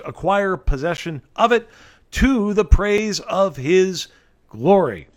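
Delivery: scripture reading. Acted. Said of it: "End of reading".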